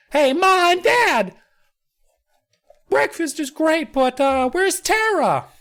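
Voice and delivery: mock little kid at breakfast asking his parents; high kid voice. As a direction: pitch it up like a small boy.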